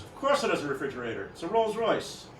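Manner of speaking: lightly hammed-up haughty rich man; a touch of imperious indignation; pompous and imperious. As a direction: answer as if the question were beneath you. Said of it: "very pompous and imperious".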